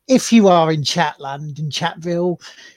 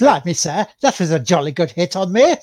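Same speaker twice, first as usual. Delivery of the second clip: mock British accent. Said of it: "Andrew Luck's gone British".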